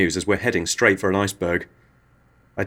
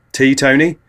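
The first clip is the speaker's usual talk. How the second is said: saucy mom; 6 semitones higher, 6 dB louder than usual. Acted.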